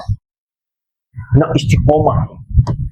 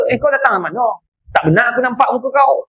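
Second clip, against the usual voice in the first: mock angry; 4 semitones higher than usual. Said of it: "Baru marah dia".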